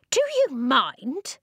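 high, slow, affronted question; indignant weedy voice. A narrator's reading. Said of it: "the voice muttered".

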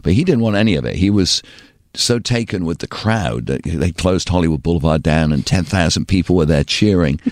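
ordinary delivery

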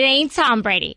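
Jersey mom tossing off "It ain't Tom Brady" in passing; first "It ain't Tom Brady", said quickly in a Jersey accent; New Jersey mom accent. Acted. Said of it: "This is exactly how she sounds".

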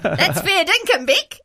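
imitating Robbo's Aussie. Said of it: "Robbo does it frequently".

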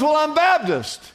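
high-pitched joke character reply; hammed-up jumper; acted earnest answer. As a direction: answer back with voice way up.

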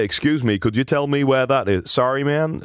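mock American tour-bus English; half-hearted American accent. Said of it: "met bands uit Amerika".

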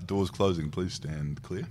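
soft, understated automated lift voice; lift announcement. Retold or imitated. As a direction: lightly imitate a recorded door warning. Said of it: "and it said".

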